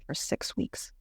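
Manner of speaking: whispered gently to her mother; a soft, confiding whisper; hushed whisper. Retold or imitated. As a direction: tell her the plan in a near whisper. Quoting her plan to mom.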